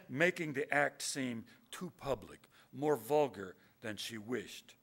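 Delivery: measured poem recital, settling after a climax; deliberate, unhurried verse delivery; poetry reading. A narrator's reading. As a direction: read it out with weighty pauses between phrases. Continues reading the poem to its end.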